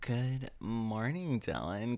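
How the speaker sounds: drawn-out slow good morning; slow greeting. Acted. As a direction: stretch the greeting lazily. Slow mock-formal greeting.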